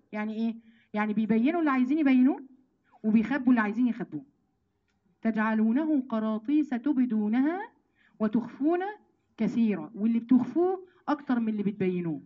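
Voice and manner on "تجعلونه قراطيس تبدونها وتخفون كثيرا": slow, drawn-out chanted verse; Quran recitation. Acted. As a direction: stretch each word of the verse. Repeating the verse. (تلاوة بطيئة ممدودة)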